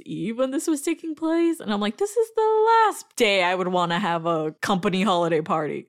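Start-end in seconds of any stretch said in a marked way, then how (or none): 2.0-5.9 emphatic, louder refusal; mock indignant protest. Worker refuses a Christmas Eve party, exasperated protest. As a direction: protest loudly, stretching the final refusal.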